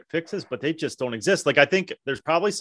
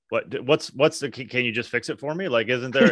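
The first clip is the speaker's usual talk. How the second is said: sarcastic. Pretend. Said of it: "say sarcastically".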